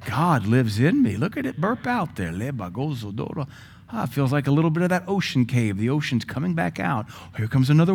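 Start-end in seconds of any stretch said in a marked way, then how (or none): 0.0-3.5 joyful tongues. Shown as a demonstration. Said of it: "You can't help but go".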